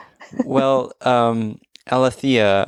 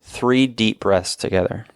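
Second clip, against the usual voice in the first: guided breathing. Acted. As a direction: lead the breaths gently. Leads a breathing exercise.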